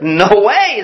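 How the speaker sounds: imitating an undaunted young ballplayer; cheerful boy. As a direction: brush off discouragement cheerfully. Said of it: "the boy was so cheerful and encouraging".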